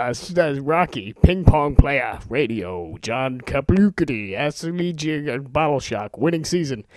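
rushed excited title rundown; speed-reading titles. Shown as a demonstration. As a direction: list names breathlessly as they fly past. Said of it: "read from my Netflix instant queue as quickly as I can".

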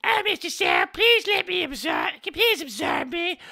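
a high, begging fan voice pleading with Mister Sal; pleading parody voice. Acted. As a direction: whine it up high like a desperate fan. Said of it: "the Nicky Town scene".

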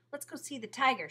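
bright shouted call to go. A narrator's reading. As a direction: call out to him, excited. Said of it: "she shouted to him".

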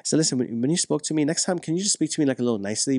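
a calm husband circling back; calm talk. Shown as a demonstration. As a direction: bring it up gently without blame. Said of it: "When you come from a place".

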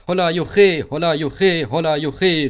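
high, loud rhythmic whoops; jubilant cheering. A narrator's reading. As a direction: cheer like carriages racing along. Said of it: "riefen die Wagen". (hoch und laut gejubelt)

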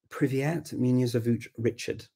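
Russian words softly said with plain English sounds; English accent in Russian. Shown as a demonstration. Language coach showing what to avoid, super English accent in Russian. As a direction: say the Russian as if it were English, barely trying. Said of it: "that's basically English with Russian words".

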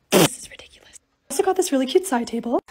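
unvoiced whisper with a sore throat. Real, not acted. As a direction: whisper it, voice still weak. Sick, voice still weak.

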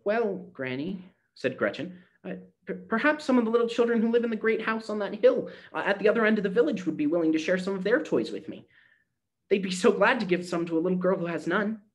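put-on high child's voice, hopeful; hopeful little girl. A narrator's reading. Gretchen hopefully suggests the rich children could share, high voice.

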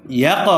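"ইয়াক" with a bounced release on the final q; echoing qalqalah. Shown as a demonstration. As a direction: pop the last q of "ইয়াক" into a small echo. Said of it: "প্রতিধ্বনি আওয়াজ দিয়া পড়িতে হয়".

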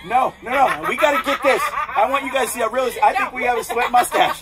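laughing. Real, not acted. Laughing at sweaty face.

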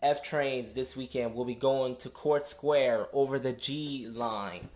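conductor reading notices over PA; steady announcer drone through a speaker; subway announcement. Real, not acted. Conductor service change announcement.

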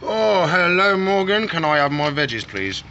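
high, eager voiced lizard hoping for veggies; voicing a lizard. Keeper voicing the lizard greeting Morgan, high and eager. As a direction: play the lizard spotting Morgan with food. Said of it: "He's like".

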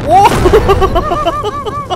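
loud, very high whoa; astonished whoop. Real, not acted. Player sets off the bomb, loud high astonishment. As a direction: shriek it in amazed delight.

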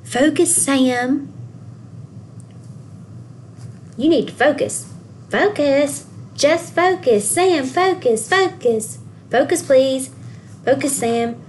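a hint of people nagging, one after another. People always telling Sam to focus, lightly voiced nagging. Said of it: "people always saying".

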